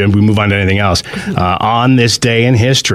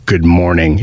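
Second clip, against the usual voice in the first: a grumpy, lower good morning; "Good morning" said grumpy and a bit lower; cranky good morning; 5 semitones lower, slower than usual. Shown as a demonstration. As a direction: mutter "Good morning" like a man who can't have his donuts. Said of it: "It's slightly different".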